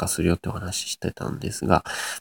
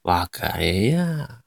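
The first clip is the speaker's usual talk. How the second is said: 別れや stretched very slowly, fourth mora raised; fourth mora rises; much slower than usual. Shown as a demonstration. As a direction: test the Nagoya rise slowly on 別れや. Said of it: "これは四つ目ですけどね". (「別れや」の四つ目を上げてゆっくり)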